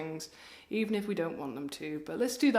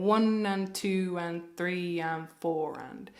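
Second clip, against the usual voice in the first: counting the beat; slower than usual. Shown as a demonstration. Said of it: "You'd be going".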